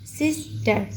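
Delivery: सिस्टर split as सिस, टर; two separate beats in सिस्टर; syllable by syllable. Shown as a demonstration. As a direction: pause between the halves of सिस्टर. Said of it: "टुकड़ों में क्यों करते हैं".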